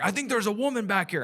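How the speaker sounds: imitating dad playing a border officer; Texas voice. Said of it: "And he's doing his voice".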